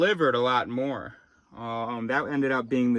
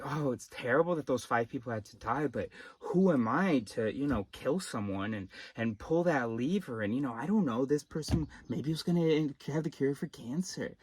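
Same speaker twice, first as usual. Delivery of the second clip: mock hand-wringing; 4 dB quieter than usual. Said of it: "were like".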